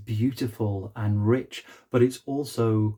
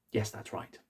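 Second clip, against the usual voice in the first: soft whisper for the statue; whispered reply; 10 dB quieter than usual. Pretend. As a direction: breathe the answer as Will. Will answers in another voice.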